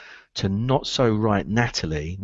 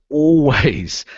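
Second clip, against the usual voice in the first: Always said alone, louder and falling; stress on Always; 4 semitones higher, 5 dB louder than usual. Shown as a demonstration. Coach naming his key word to recruiters, stressed. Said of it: "what's the word?".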